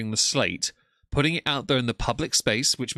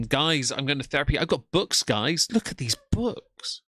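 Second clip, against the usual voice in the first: higher-pitched mock vlogger pleading with viewers; mocking imitation; 4 semitones higher than usual. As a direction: imitate her, climbing high and slowing on the last words. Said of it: "She'll make videos on it saying".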